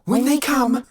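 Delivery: high, urgent full yell. A narrator's reading. Woman gripping his shoulders, right in his face, yelling.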